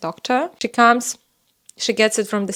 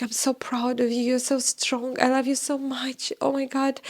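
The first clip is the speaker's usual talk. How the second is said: soft, slightly raised supportive voice; tender reassurance; 3 semitones higher, 6 dB quieter than usual. Retold or imitated. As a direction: gently retell loving encouragement. Voices husband comforting her in surgery.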